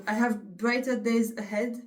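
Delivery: put-on slow English quote in a thick French accent; quoting a pop lyric in her own French-accented English, self-mocking. Vlogger quoting a singer to her viewers, in a French-accented English. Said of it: "Mon accent anglais, il est vraiment avancé".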